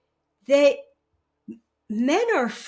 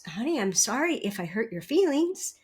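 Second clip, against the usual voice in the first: gentle apology; 3 semitones lower, 4 dB quieter than usual. Shown as a demonstration. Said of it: "I teach men".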